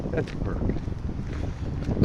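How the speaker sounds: slow breathy whisper to himself; whispered aside. Real, not acted.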